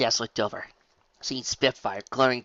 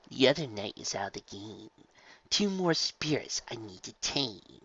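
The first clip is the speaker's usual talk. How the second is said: gloating villain; 3 dB quieter than usual. Acted. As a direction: savour the win. Villain gloating over chess.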